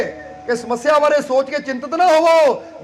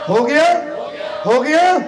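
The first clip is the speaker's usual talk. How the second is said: rising to a cry. Shown as a demonstration. Preacher leads the crowd in a swelling, joyful cry. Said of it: "ਹੁਣ ਕਹਿ ਦਿਓ".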